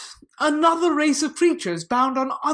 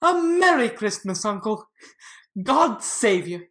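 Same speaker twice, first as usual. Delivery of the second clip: jolly nephew greeting his uncle; cheerful cry; 5 dB louder than usual. Acted. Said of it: "cried a cheerful voice".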